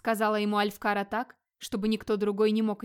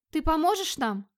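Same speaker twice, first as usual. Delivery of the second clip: higher, hopeful plea for help; hopeful question; 7 semitones higher than usual. A narrator's reading. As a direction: ask with cautious hope. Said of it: "с надеждой спросила Рагнагейда". (с надеждой, просительно)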